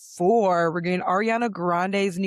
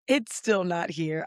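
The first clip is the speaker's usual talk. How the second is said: lost voice, slow and rough; hoarse voice; slower than usual. Real, not acted. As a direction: croak through a worn-out voice. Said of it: "my voice is still M I A".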